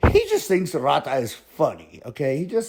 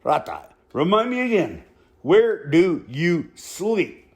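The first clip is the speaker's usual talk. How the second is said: drawn-out deadpan question, no smile; a slow, dead-serious reminder to Rata; slower than usual. Retold or imitated. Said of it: "straight face".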